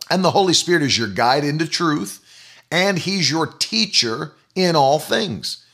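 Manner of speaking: ordinary talk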